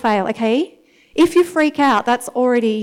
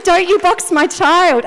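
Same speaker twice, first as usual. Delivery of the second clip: firm retold rebuke; 5 semitones higher, 4 dB louder than usual. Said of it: "And I said".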